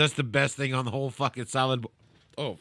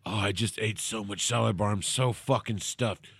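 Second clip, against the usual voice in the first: creepy whisper; 6 semitones lower, 6 dB quieter than usual. Pretend. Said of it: "rape whisper in your ear".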